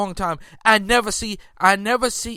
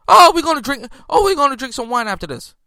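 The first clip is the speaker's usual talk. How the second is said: a light mocking voice, high at the start; lightly mocked player bragging; mocking imitation; 4 semitones higher, 4 dB louder than usual. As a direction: poke fun at his carefree boast. Mocking Towns's postgame attitude.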